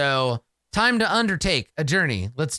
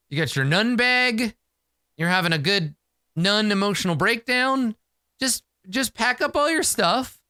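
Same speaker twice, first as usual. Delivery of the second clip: exasperated badgering; 7 semitones higher than usual. Character badgers crying nun girl.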